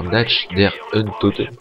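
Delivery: slow, hammed-up German accent on the title; a mock-German pronunciation of the map name; playfully over-pronounced German title. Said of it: "Excusez mon magnifique accent allemand".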